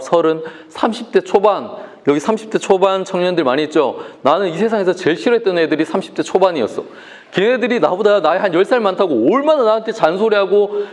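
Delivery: ordinary talk, nothing marked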